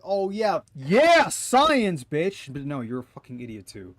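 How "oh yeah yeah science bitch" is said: high, loud, fast gleeful yell; shouting it out, pumped and goofy; mock hyped cheer. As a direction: crow it like a triumphant nerd. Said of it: "I thought you were about to be like".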